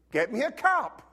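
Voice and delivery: put-on loud, bossy little-kid order; demanding four-year-old. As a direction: play the cheeky kid bossing his dad. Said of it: "four-year-old said".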